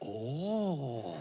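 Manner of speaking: unhurried, drawn-out, humble little oh. Retelling how the child reacts on seeing tattoos: imitating the child's reaction. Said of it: "he would look at them and be like".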